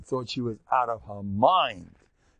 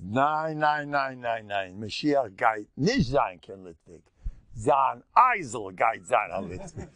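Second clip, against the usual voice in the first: father-in-law's retort; slower than usual. Retold or imitated. Father-in-law retorting with punchline.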